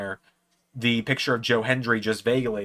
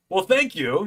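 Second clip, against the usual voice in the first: higher-pitched wrestler impression; rough imitation of a gracious star, pitched up; Joe Hendry; 8 semitones higher, 3 dB louder, slower than usual. Wrestler thanks his fan, in a put-on voice. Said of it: "not the best Joe Hendry impression".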